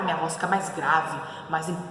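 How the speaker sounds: lightly acted, grave and authoritative; angry low voice. Shown as a demonstration. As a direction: drop the voice to sound stern. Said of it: "Se eu tô brava".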